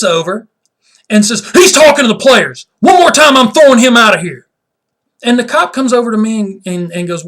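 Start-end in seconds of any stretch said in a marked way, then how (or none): 1.5-4.5 high, shouted tattling; loud, hammed-up threat to eject; mock outraged referee. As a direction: yell the complaint like an overreacting official. Imitates referee complaining to police.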